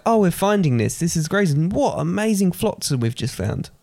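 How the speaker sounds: mock excited finder. Joking to quiz host as someone finding flotsam, mock excited. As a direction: play up the amazing find a little.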